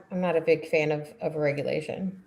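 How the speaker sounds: talking through a yawn. Real, not acted. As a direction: yawn while you speak. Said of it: "I'm sorry for yawning".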